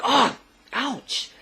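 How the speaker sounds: high mock yelp of pain; pained cry. Man smacked right in the chin, high mock pained yelp. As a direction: yelp as if struck.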